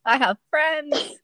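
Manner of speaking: FRIENDS drawn out high, as if unsure; slow, high mock claim, question mark after FRIENDS. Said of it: "Question mark".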